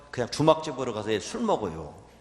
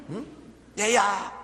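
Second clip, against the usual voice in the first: father calling again; 7 semitones higher, 4 dB louder, slower than usual. Acted. Father keeps calling his son.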